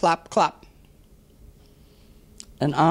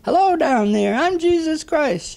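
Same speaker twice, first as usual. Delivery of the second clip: top-of-voice yell; 14 semitones higher, 3 dB louder than usual. Acted. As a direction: holler it down as high as your voice goes. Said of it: "he yells at the top of his voice".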